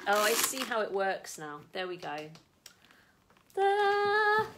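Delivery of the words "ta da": high, loud sing-song flourish; triumphant reveal. Real, not acted. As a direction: present it like a big reveal. Revealing the new bag.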